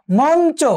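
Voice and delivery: মঞ্চ said slowly with ঞ as a plain n; dental n sound. Shown as a demonstration. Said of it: "দন্ত নয়ের মতো উচ্চারণ হবে". (মঞ্চ-এ ঞ-কে দন্ত্য ন-এর মতো উচ্চারণ)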